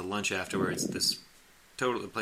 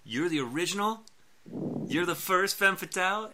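excited delight; 10 semitones higher, 4 dB louder than usual. Retold or imitated. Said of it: "He's like".

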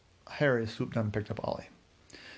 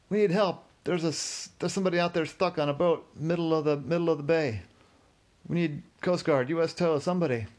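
urgent call for help; 6 semitones higher than usual. Acted. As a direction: burst in shouting for help for the stranded man. Bursting into the marina bar.

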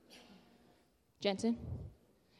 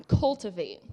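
"Cultivate" said slowly, each syllable clear; slow teaching word; 4 semitones lower, 4 dB louder than usual. Shown as a demonstration. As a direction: spell out "Cultivate" slowly for children. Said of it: "One more time".

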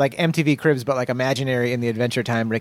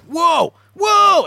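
mock-amazed whoa, much higher and louder; 7 dB louder than usual. Host imitating his awed reaction, a high, loud whoa. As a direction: act blown away by the guest's house. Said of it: "And you're just like".

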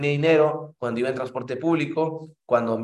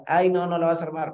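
higher, dismissive "Ay, no"; imitating a doubter; mock doubter; 5 semitones higher than usual. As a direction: brush off the dream, lightly mocking. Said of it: "hay gente que tal vez no te diga".

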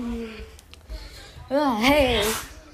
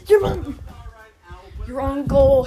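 shouting; 5 dB louder than usual. Acted. Yelled joke.

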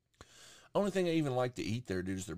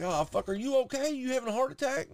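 high, urgent mock worry; retold alarm; 3 dB louder than usual. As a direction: reenact checking on mom in a panic. Retold alarm at mom's heart.

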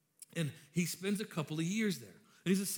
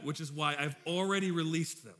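laughing joke; 4 dB louder than usual. Real, not acted. Joking he released snakes.

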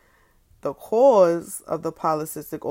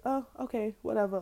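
imitating a bored doctor, higher and softer; mock nonchalant doctor; 4 semitones higher, 4 dB quieter than usual. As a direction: brush it off like it doesn't matter. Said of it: "like, mad nonchalant about it".

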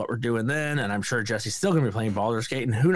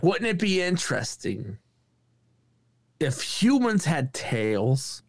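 odd star impression, higher, with long pauses; halting musing, stretching the final words; Christopher Walken; 3 semitones higher, slower than usual. Imitating a star posing an odd question to a comedian, halting impression. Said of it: "Christopher Walken looks at the dog".

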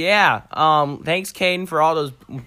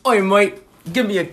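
loud, badly faked Aussie; mock Australian accent; 5 semitones higher, 6 dB louder than usual. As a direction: call out in a put-on Australian accent. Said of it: "That's not Australian".

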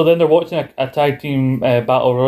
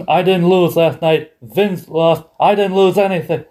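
mock angry Triple H; 4 semitones higher than usual. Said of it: "Triple H ... angry face".

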